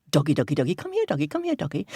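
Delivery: quick repeated coaxing call; calling a dog. Acted. Fox to the dog, coaxing call. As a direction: coax a dog to come over.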